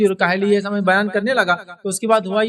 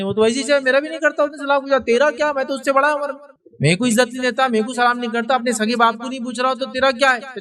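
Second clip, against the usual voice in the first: raised-pitch scornful retort; mocking relative; 5 semitones higher than usual. Uncle's son scoffs at the mediator, higher and scornful. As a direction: scoff as the offended uncle would.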